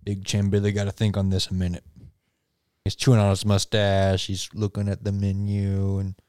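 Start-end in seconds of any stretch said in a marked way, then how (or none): 0.0-1.8 Big Chain Billy. Acted. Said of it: "He's like".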